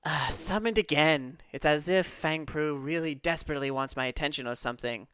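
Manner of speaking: lightly voiced put-upon cat; cat patron. Summoned cat grumbles about being wanted, lightly acted exasperation. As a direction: complain with a touch of mock exasperation. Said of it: "the cat perks up and says".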